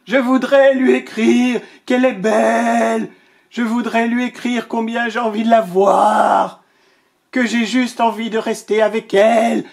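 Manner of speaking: lion bellowing sweet longing; roaring tender words. Acted. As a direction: roar out the love he cannot write. Lion roars tender wishes.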